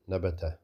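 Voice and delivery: "Nabata" run together with three short vowels; short sounds, joined. Shown as a demonstration. Teacher models reading it fast, short sounds. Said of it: "Whether you read it slow or fast".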